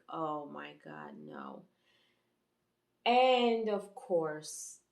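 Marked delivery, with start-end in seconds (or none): 0.1-1.6 softer, fading almost to nothing; heartbroken, barely said to herself; quiet slow "oh my God, no" sinking away; inner dismay. Retold or imitated. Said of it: "And in my heart, I'm like".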